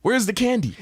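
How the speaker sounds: calm mom voice. Retold or imitated. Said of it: "still calm".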